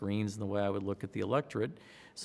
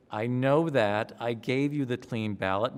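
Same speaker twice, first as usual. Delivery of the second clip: insistent; 5 dB louder than usual. Retold or imitated. Director insists she's right.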